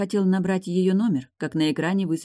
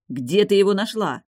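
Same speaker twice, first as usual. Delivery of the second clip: near shout; 5 semitones higher, 5 dB louder than usual. A narrator's reading. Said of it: "едва ли не прокричал Далий".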